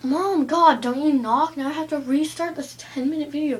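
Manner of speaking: loud, annoyed complaint; teen yelling at mom who walked in; exasperated yell at mom. Retold or imitated. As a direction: snap at mom for barging in. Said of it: "And I'm like".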